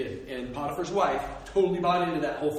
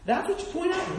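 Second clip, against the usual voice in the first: much higher, outraged mock disbelief; high incredulous repeat; 12 semitones higher than usual. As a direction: throw it up high in comic outrage. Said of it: "I'm like".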